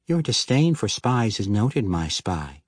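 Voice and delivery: playful woman's voice, teasing; teasing wife. Acted. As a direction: tease him back. Denala teasing Regis.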